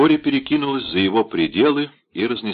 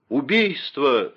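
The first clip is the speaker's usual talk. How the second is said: mild alarmed cry; 5 semitones higher, slower than usual. Acted. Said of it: "завопил Патрик".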